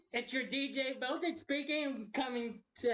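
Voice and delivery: lightly voiced radio host; a hint of DJ patter. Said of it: "do a D J voice".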